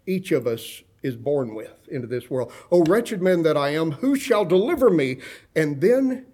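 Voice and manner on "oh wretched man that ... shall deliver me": raised plea, climbing toward the question; desperate cry. Acted. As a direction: preach it as Paul's cry for rescue. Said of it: "And here's his cry".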